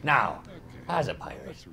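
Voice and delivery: low, lightly voiced pirate; a hint of a salty pirate. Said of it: "Pirate voice".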